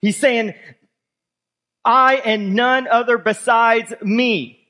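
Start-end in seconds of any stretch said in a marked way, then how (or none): 1.8-4.6 "I" weighted, the whole phrase slowed; slow and insistent on "I and none other"; emphatic I. Shown as a demonstration. Preacher insisting, leaning on "I". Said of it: "that's the emphatic".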